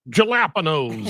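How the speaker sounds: "jalapenos" with a hard English J; mispronounced jalapenos. Retold or imitated. Retelling a Subway commercial's mistake, mispronounced jalapenos. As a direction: say "jalapenos" with J as in jam, not H. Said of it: "that's me".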